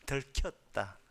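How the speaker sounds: ordinary delivery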